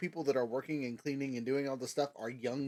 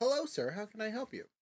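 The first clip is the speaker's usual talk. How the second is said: put-on kind, courteous, high little child voice; 8 semitones higher than usual. Narrator voicing an older child at the orphanarium greeting the visitor, kindly. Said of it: "greets you kindly and says".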